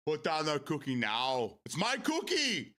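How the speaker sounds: slow, drawn-out yell climbing high; hammed-up film quote, building to a high cry; mock movie outburst. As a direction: imitate an indignant movie line, stretching the words. Acts out Christmas movie line.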